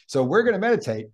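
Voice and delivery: quick, bright kickoff; upbeat. Shown as a demonstration. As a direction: launch it with cheer. Starting the meditation demo.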